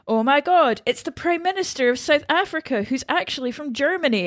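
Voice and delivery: esclamazione da improvvisazione, più acuta; improv setup. Acted. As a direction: announce it like an improv player. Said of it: "So we'd be like".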